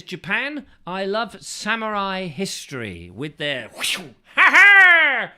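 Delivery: a bad, over-the-top Japanese samurai accent with a whoop; mock Japanese accent. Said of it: "That's not very Japanese".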